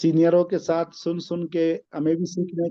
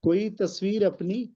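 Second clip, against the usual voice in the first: poem recitation. Acted. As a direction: recite the couplet with weight. Recites qita verses.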